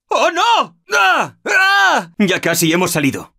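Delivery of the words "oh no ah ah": startled yelps. Acted. Startled under attack.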